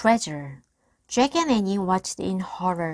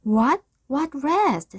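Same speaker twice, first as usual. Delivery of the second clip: surprised; 8 semitones higher, 5 dB louder than usual. A narrator's reading. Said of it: "said Annie".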